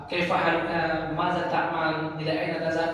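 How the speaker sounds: "Kaifa haluka, maza ta'mal" said slowly and carefully; formal Arabic. Shown as a demonstration. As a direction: recite the fusha phrases like a student. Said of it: "bisa ngomong bahasa fusha".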